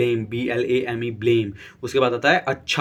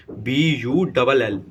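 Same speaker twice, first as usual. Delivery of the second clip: slow spelling; much slower than usual. Shown as a demonstration. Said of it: "teacher spells out word".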